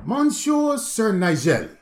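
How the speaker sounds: playful fake French address; mock French accent. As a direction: put on a hammy French accent. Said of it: "I don't know what accent that was".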